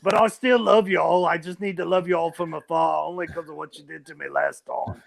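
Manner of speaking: put-on accent between Australian and British; Australian accent slipping into British. Jesus loving everyone from afar, drifting British-Australian accent. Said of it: "Now it's going to British again".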